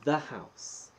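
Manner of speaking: loud, slow hype announcement; announcer call. Acted. Streamer welcoming his wife to the stream, loud MC call. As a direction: sell it like a ring announcer.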